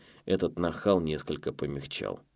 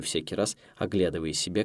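ordinary delivery, nothing marked

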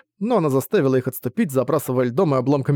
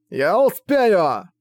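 slow, strained, higher cry; running out of air; 6 semitones higher, much slower than usual. Acted. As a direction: force it out gasping. Dying man insists.

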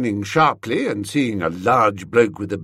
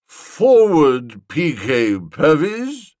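loud summons; 4 semitones higher, 6 dB louder, slower than usual. Acted. Summons boy to platform.

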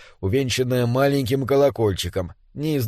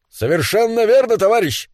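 high, emphatic comrade's reply; eager agreement; 7 semitones higher, 3 dB louder than usual. Acted. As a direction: back your comrade with fervour. Comrade answers the rallying cry. (горячо соглашаясь, высоким голосом)

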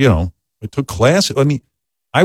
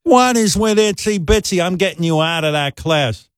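much higher mock scolding mother; mock screaming mom; 7 semitones higher than usual. Mother telling son she's pulling him out, higher mock scold. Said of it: "starts screaming at me".

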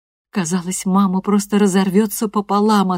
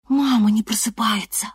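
frightened whisper; 6 semitones higher than usual. Acted. Scared girl wakes her mother.

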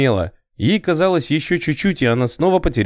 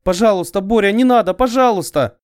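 terrified pleading; 10 semitones higher than usual. A narrator's reading. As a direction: beg him to stop, terrified. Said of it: "хрипела она".

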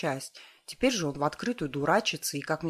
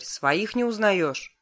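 loud, slow, higher rebuke; raised voice; 5 semitones higher, 6 dB louder, much slower than usual. A narrator's reading. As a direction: raise your voice at the wolf, slowly. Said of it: "повысил голос". (громкий медленный упрёк)

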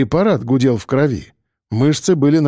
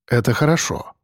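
ordinary delivery

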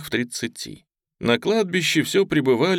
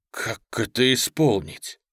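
controlled, even question; restrained. Acted. Lieutenant asks how to do it, restraining himself. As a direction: hold the temper in check. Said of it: "сдерживаясь".

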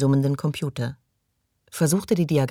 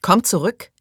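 louder raised call down the corridor; high, loud call to come back; calling after her; 5 semitones higher, 5 dB louder than usual. A narrator's reading. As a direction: shout after someone walking away. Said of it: "rief Belznur".

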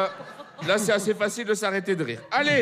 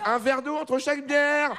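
sententious friend; 5 semitones higher, slower than usual. Retold or imitated. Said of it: "quelqu'un qui dit toujours".

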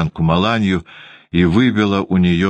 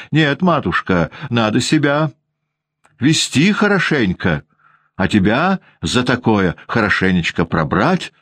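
сердитая воспитательница; 2 semitones higher than usual. Acted. Воспитательница отчитывает Ванду.

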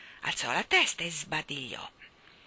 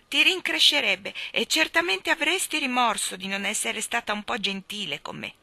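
self-pitying reproach, raised at first; warning; 4 semitones higher, 5 dB louder than usual. Acted. Boy reproaching his nanny for her unkindness. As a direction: make her feel guilty. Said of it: "ammonì".

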